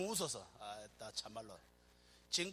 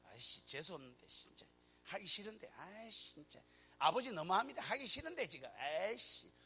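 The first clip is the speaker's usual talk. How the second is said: grumbling complaint. Pretend. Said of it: "이렇게 십자가 진 게 아니란 말이에요".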